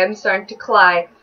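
replayed mispronunciation of CRY as "kly"; repeating the slip. Shown as a demonstration. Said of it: "that's the new one".

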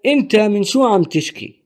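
أنت من شو عم تشكي said fast as a native would; Levantine Arabic model sentence. Shown as a demonstration. Teacher models the sentence for learners, quick and natural. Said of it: "Our first sentence is".

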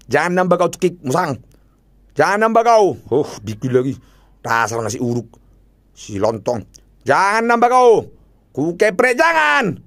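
frantic pleading. Real, not acted. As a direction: plead with rising panic. Begging game not to add. (memohon dengan panik)

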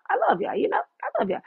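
high, lilting affection; sweet reassurance. Real, not acted. Reassuring listeners after correcting them, sweet. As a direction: soften the blow in a high sweet voice. Softening a hard word to listeners.

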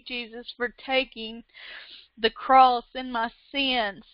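hushed heartfelt prayer of thanks. Real, not acted. Quiet spoken prayer of thanks.

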